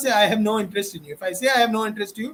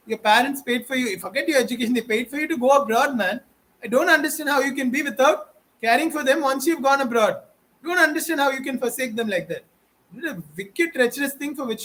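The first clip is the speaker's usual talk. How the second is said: raised, higher pitched rebuke; indignant scolding; 5 semitones higher than usual. Real, not acted. Speaker rebukes emigrants who abandoned their parents, indignant and raised.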